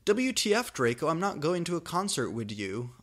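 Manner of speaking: high, loud indignant outburst; shouting angrily. Acted. Goth girl refusing Draco's concert invite, angry shout. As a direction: snap at him, outraged goth teen. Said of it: "I shouted angrily".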